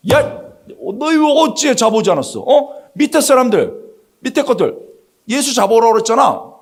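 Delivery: high-pitched, indignant telling-off; mock-angry superior demanding an explanation; acted scolding. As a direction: play a boss berating useless underlings.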